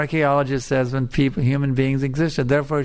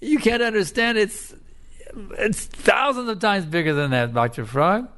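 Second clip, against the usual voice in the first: straining to make him understand, pitched high; exasperated little frog; 6 semitones higher than usual. Acted. Little frog pleads with his stubborn teacher, high and pressing.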